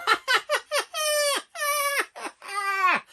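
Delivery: long, very high cackling laughter; hammed-up prolonged high laugh; imitated laughing fit. Mother laughing at her son, exaggerated high cackle.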